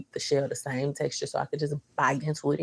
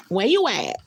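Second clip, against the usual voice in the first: higher, louder "Where you at?" calling; 4 semitones higher, 5 dB louder than usual. Shown as a demonstration.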